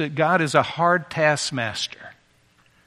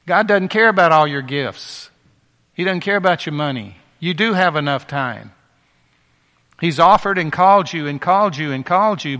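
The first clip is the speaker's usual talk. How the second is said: forceful preaching; 5 dB louder than usual. Real, not acted. Preacher rebukes congregation forcefully.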